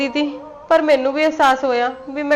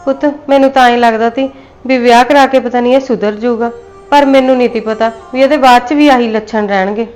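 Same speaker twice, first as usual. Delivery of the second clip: louder, pleading self-blame; loud anguished confession; 6 dB louder than usual. Acted. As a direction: cry out that the fault is hers. Mother pleads guilt in quarrel.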